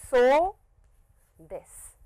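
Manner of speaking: SO held long, then a short drop; "So" stretched out, pause before "this"; long vowel. Shown as a demonstration. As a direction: draw out the vowel in "So". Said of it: "so long sound".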